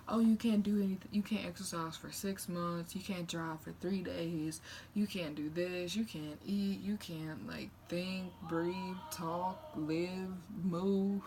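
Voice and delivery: exaggerated strict doctor lecture, mocking; hammed-up list of rules. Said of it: "they're like".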